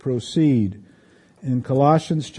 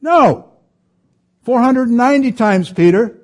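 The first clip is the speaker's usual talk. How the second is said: emphatic Jesus; 7 semitones higher, 6 dB louder than usual. Retold or imitated. Jesus answering Peter.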